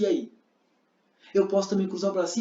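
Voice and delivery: normal talking voice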